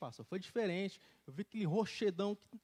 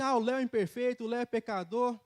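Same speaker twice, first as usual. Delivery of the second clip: loud, higher mock of an accuser; 5 semitones higher, 7 dB louder than usual. Preacher voicing the accuser who calls him a sinner, loud mock. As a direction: sneer it like the devil's accusation. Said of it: "Fala assim".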